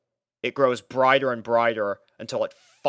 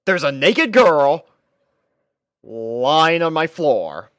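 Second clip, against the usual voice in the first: stunned exclamation; 4 semitones higher, 9 dB louder, slower than usual. A narrator's reading. Stunned realisation of naked girl.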